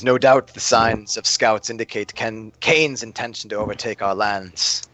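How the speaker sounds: slow, deliberate kingly tone, lightly voiced; measured king. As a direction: weigh each word like a ruler pondering. King fears invasion.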